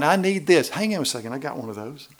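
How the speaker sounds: high, loud, eager mock woman rummaging. Preacher mimicking a church lady with a full purse, high and eager. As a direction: ham up a woman offering everything from her purse.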